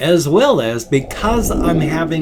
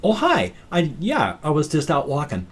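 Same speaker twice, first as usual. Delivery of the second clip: breezy casual greeting; 4 semitones higher than usual. Retold or imitated. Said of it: "I can just go".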